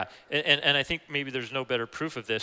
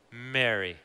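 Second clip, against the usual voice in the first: tender; 3 semitones lower than usual. Acted. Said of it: "a really tender moment".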